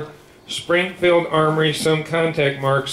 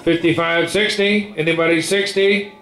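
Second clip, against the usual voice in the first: rapid rolling bid chant; auctioneer. Real, not acted. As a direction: rattle off the bids like an auctioneer.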